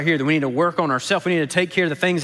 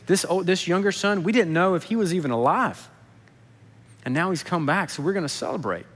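consoling. Retold or imitated. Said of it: "tries to console the older son".

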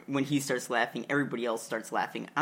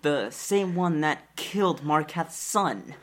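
scornful guard; 3 semitones higher, 5 dB louder than usual. Acted. Guard leader sneers at potions.

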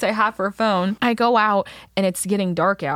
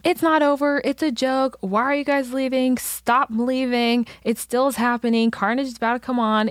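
yelling; 3 semitones higher than usual. Retold or imitated. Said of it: "We start yelling".

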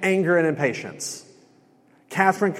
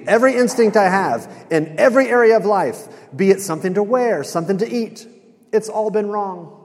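higher-pitched, mildly exasperated lament; mock despair, pitched up; retold despairing rant; 5 semitones higher, 4 dB louder than usual. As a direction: act out a man bemoaning his whole life. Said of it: "He is depressed".

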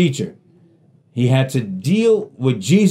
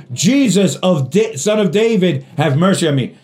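pleading cry; 4 semitones higher than usual. Retold or imitated. Blind man begging Jesus for mercy.

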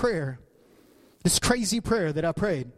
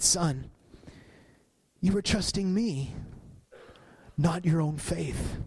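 tender voice of God; slower than usual. Retold or imitated. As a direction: say it gently like a loving father. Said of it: "so tenderly".

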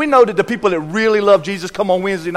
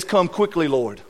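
hushed prayer; 7 dB quieter, slower than usual. Acted. Quoting John's prayer softly.

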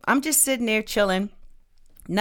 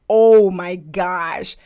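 slow, emphatic reenacted excitement; so excited; 3 dB louder, slower than usual. Guest reliving her thought in that moment, excitedly emphatic. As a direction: stretch each word with intense anticipation. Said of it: "I was so excited in that moment".

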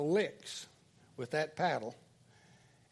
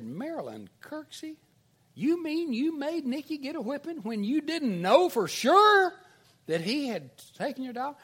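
high-pitched scolding, building louder; teacher's mock hollering; 8 semitones higher, 4 dB louder than usual. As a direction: imitate an outraged teacher scolding a pupil. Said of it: "hollering at Marilyn".

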